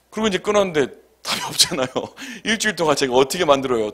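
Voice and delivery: usual speaking voice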